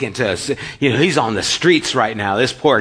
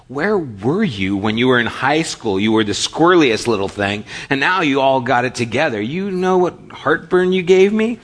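mock scolding; 3 semitones higher, 3 dB louder than usual. Mock scolding former student.

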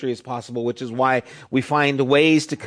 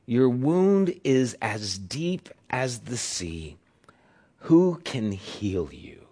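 scripture reading. Acted. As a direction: read the lament gently, letting it sink. Reading Lamentations aloud.

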